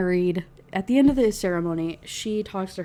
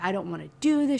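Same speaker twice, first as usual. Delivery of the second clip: put-on distressed screaming; 6 semitones higher, 4 dB quieter than usual. Retelling a dramatic scene, acting out a woman protesting a forced marriage. Imitating screaming. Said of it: "She's screaming".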